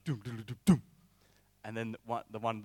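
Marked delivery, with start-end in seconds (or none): 0.0-0.8 mouthed drum thuds, short and percussive; imitated drumbeat. Storyteller imitating the tribe's drums, percussive. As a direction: mimic drums coming to a stop. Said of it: "the drums stop. It's like".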